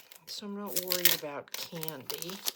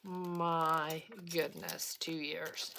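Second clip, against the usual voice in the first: amazed; much slower than usual. Retold or imitated. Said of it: "And I'm like".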